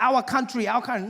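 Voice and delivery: put-on Asian salesman accent. Salesman lectures the customer on credit, mock Asian accent. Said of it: "And he's like".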